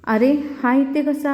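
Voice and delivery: mother startled at the sight of him; mock astonishment, drawn out; shocked. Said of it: "असं ते एकदम चकित होते".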